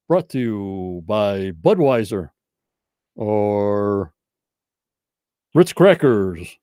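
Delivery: slow, drawn-out game show host voice. Pretend. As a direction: announce it like a TV quiz host. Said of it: "you gotta talk like a game show host".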